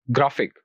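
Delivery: "ग्राफिक" with a strong first syllable; stress on ग्रा. Shown as a demonstration. Teacher repeats for learners "ग्राफिक", stressed on ग्रा. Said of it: "हम stress देंगे ग्रा".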